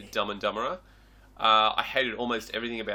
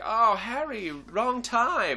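higher mock voice; pitched-up mock of the parents; imitating the parents; 8 semitones higher, much slower than usual. Retelling the parents greeting Harry, higher mock voice. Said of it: "they're like".

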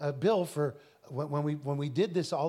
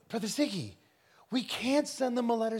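higher-pitched imitated Indian accent; 6 semitones higher than usual. Indian fellow refuses preacher's letter, imitated Indian accent. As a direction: protest in a light Indian accent. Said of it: "he's an Indian fellow".

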